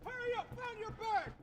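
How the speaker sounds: drill sergeant. Real, not acted. Drill sergeant hurrying recruits off bus.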